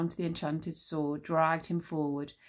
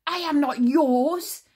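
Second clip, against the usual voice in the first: high, loud, slow defiant scream; 9 semitones higher, 9 dB louder, slower than usual. A narrator's reading. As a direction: scream your refusal. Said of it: "screamed Tsar".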